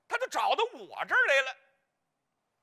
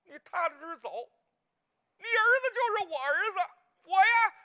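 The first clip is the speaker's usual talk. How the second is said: a touch of earnest vow, rising louder; reassuring promise; 7 semitones higher, 5 dB louder than usual. Retold or imitated. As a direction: promise her firmly. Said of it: "我说：".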